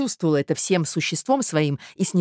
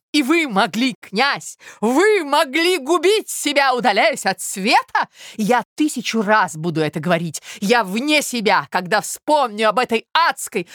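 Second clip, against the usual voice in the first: higher, louder mock outrage; higher, louder theatrical indignation; indignant mother; 6 semitones higher, 4 dB louder than usual. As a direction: overplay the shock.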